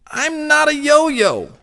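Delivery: high, slow indignant cat cry; drawn-out protest at the balloon. A narrator's reading. Henry protests to the bouncing balloon, high and indignant.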